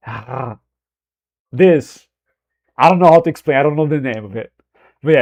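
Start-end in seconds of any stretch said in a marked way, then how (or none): 0.1-0.6 soft rasped H from the throat; throaty Brazilian R. Shown as a demonstration. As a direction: demonstrate a throaty, breathy R sound. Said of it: "another pronunciation of R".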